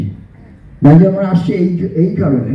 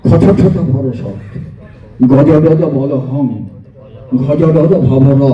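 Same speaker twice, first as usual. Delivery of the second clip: slow, measured syllables; slow recitation; 2 semitones lower, slower than usual. Shown as a demonstration. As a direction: say each cluster slowly and evenly. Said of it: "আস্তে আস্তে বলছি". (আস্তে আস্তে উচ্চারণ)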